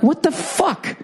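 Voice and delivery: high, incredulous what the fuck; stunned disbelief. Retold or imitated. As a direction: sell the outrage, pitch way up. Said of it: "And I'm like".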